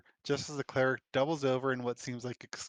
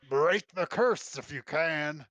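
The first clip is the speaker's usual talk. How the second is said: lightly raised druid voice; calling out; 3 semitones higher, 5 dB louder, slower than usual. Acted. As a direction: call it out across the chaos. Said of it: "Roy calls out".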